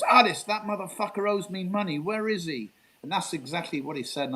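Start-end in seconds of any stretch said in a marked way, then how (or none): 0.0-2.7 higher-pitched retold indignation; mock indignant outburst. Gregory on the phone about the money he's owed, mildly acted indignation. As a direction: imitate an aggrieved man demanding his money.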